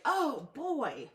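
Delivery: high, loud exclamation of amazement; loud, high oh boy in surprise; amazed oh boy. Shown as a demonstration. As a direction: gasp it out like something shocked you. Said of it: "You're like".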